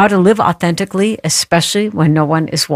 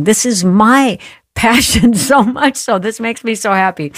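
laughing with delight; 5 semitones higher than usual. Real, not acted. Host gushing about guest's passion.

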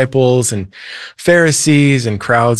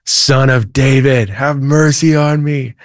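higher, slow mock cry, a bit louder; retold louder cry; 3 semitones higher than usual. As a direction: plead harder, stretching the words. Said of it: "He shouts even louder".

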